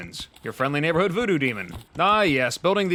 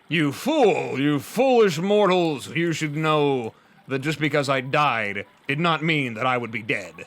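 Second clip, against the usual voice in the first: dark lord; slower than usual. Acted. Imagined villain taunt after death.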